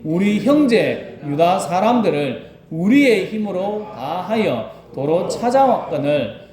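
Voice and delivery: slow, solemn Bible reading; scripture reading. Acted. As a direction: read the verse slowly and reverently. (천천히 성경 봉독)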